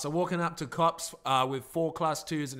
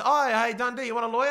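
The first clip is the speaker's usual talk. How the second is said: mocking cop; 6 semitones higher, 6 dB louder, faster than usual. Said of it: "Bass says".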